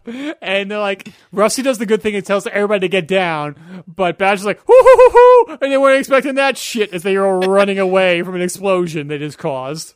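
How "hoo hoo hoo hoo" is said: high, loud string of whoops; imitated whooping. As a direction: whoop like someone thrilled by a blast. Imitates Basher whooping at explosion.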